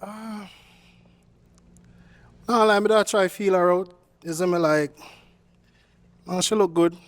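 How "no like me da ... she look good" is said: light Jamaican accent put on to charm a woman; easy Jamaican patois lilt, played cool. Suitor on a dating show charms her in a Jamaican accent. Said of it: "using your Jamaican accent".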